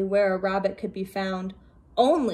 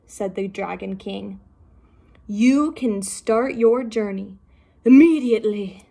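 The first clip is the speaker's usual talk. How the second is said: a touch of a commanding king, louder on "immediately"; lightly voiced regal king; 4 dB louder than usual. The Dragon King sending the turtle off, lightly regal.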